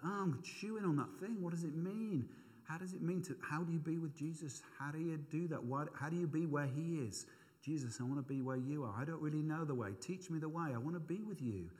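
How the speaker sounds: quiet prayer. Shown as a demonstration. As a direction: pray it quietly to yourself. Example of meditative prayer.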